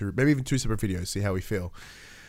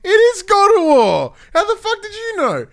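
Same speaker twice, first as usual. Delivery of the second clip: mock ecstatic shriek; 13 dB louder than usual. Telling his friend she guessed the game, high loud overjoyed shout. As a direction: shriek it out like a thrilled fan. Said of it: "I'm like".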